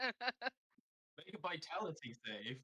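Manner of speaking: drawn out, loud; slow and deliberate. Real, not acted. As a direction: spell it out slowly. Joking rules dispute.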